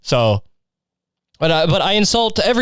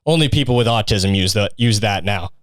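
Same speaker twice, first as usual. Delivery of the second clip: mocking peers; 2 semitones lower than usual. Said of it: "everyone was just like".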